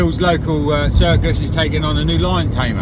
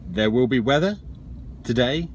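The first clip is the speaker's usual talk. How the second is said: hapless weatherman; 7 semitones lower, 5 dB quieter than usual. Acted. Joey gives a clueless forecast to the studio, hesitant. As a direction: ramble uncertainly, trailing lower and softer.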